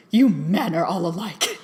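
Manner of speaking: huffy, mildly offended retort; a hint of wounded pride; indignant. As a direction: play the scorned lover lightly. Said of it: "he sounded so indignant".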